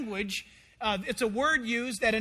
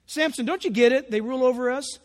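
loud, rushed, acted exasperation; alarmed pleading; 3 semitones higher, 5 dB louder, faster than usual. Men of Judah confronting Samson, acted alarm. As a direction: plead in a panic, rising higher to the end.

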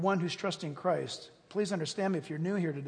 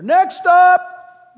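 loud, higher conductor call; train conductor; 11 semitones higher, 19 dB louder than usual. Retold or imitated. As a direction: call the stops down the aisle. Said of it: "So he calls out".

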